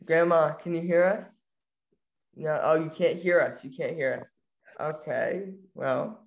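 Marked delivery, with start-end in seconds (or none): 0.0-3.6 calling out. Real, not acted. Calling to muted grandma.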